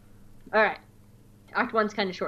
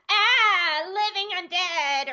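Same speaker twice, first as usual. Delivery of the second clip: higher, panicked droid yelp; panicky droid; 8 semitones higher, much slower than usual. Retold or imitated. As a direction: squeal like a frightened battle droid. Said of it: "some kind of droid line".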